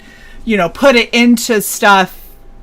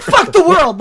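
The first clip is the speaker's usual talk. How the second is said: higher-pitched mock defiance; miserable old sods; 7 semitones higher than usual. Imitating bitter people who sit and drink, mock defiant. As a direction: lash out like a bitter old sod. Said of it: "miserable old sods that sit there".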